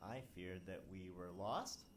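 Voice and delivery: voice-acted priest. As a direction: read the line as a solemn priest. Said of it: "Go voice act that out".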